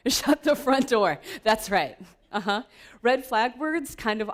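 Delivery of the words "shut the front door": high, loud and slow, hammed-up; mock outburst. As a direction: shout it like a driver cut off, drawn out. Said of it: "where we say other things".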